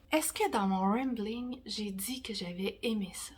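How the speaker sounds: whispered question to herself. Real, not acted. Doubting her own rambling review, whispered. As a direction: wonder aloud in a whisper.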